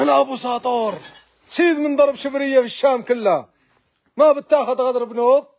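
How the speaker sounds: put-on playful Syrian accent lifted from a TV series; Syrian dialect imitation. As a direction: quote Abu Satour from Bab al-Hara in Syrian Arabic. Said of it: "راك جايبها باللهجة السورية".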